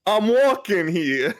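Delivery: slow New York catchphrase; New York accent. Shown as a demonstration. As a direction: drawl it New York style. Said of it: "My callback phrase is gonna be".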